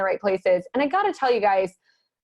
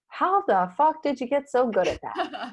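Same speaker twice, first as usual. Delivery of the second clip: laughing question; 2 semitones higher, 3 dB quieter than usual. Real, not acted. Host's joking question.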